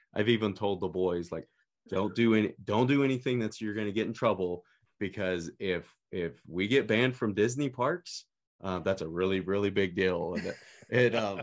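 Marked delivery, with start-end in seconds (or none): none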